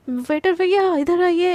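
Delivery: mild mock call across the canteen; calling out loudly. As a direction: shout across the room for the waiter. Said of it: "वो चिल्लाने लगती है".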